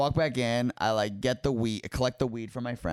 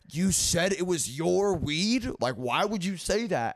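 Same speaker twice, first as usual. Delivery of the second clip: incredulous dad; 7 semitones higher than usual. Retold or imitated. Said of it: "my dad's like".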